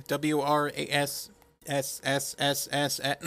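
W R A S S S S S with a long hissing s, slow; drawn-out s like a snake. Shown as a demonstration. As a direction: stretch the S in W R A S S S S S into a snake hiss. Spells the handle, drags the s.

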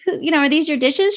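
high, lilting sing-song voice; held-back yell turned into high sing-song. Retold or imitated. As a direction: ask it in a sweet sing-song instead of yelling. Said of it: "in a sing-song voice".

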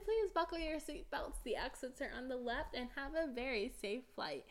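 bright, polite cabin announcement; flight attendant voice. Retold or imitated. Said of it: "I sound like a flight attendant".

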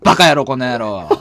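gruff Takeshi catchphrase; Beat Takeshi impression. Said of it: "たけしニットやないの".

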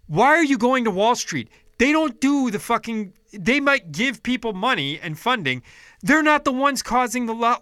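venting fury at the listener; real ranting yell. Real, not acted. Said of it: "I'm just screaming in your ear now".

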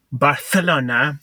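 "Barcelona" with a th sound for the c; over-pronounce "Barcelona" with a Spanish lisp; lisped Spanish pronunciation. Retold or imitated. Mocking people who say it the Spanish way, lisped "Barcelona". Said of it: "people who say specifically".

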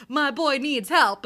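loud, high, stretched-out announcement; rallying wingman shout. Retold or imitated. Wingman backing his friend on the dance floor, rallying shout. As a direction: call it out for your buddy.

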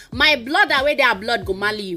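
lightly imitating an Igbo market woman's accent, r in marry said as l; Igbo accent imitation. Igbo woman from Anambra, remembered from Lagos, light Igbo accent. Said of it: "That's her accent".

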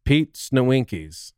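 deadpan, slow name reading; dead serious. Acted. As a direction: read it out slowly, completely straight-faced. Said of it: "just, like, dead ass serious".

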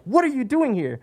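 high, imitated alarmed coworker; a high, startled what are you doing; startled question. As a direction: voice their shock up high. Startled coworkers confront him.

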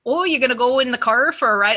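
put-on Wisconsin accent. Going home to Wisconsin, a light Wisconsin accent. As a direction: slip into a hometown Wisconsin accent. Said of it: "we have the accent from Fargo".

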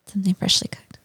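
hushed whispered repeat; whispering. Pretend. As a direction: breathe it out in a whisper.

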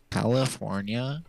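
slow, questioning echo with rising end; mocking the impression. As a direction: hand the caricature back, drawn out in disbelief. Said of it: "What is that impression of me?".

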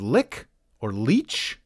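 "lick" with a hard k, "leech" with a long ee; "lick", then drawn-up questioning "leech"; alternative pronunciations. Shown as a demonstration. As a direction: offer "lick or leech" as rival sayings. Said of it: "Are you sure it's not pronounced".

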